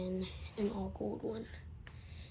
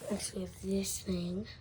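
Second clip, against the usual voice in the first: whispering. Acted. Whispered unboxing aside.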